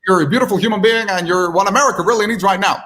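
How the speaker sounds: high-pitched presidential impersonation; Donald Trump. Acted. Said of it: "the Donald Trump lines just tend to stick".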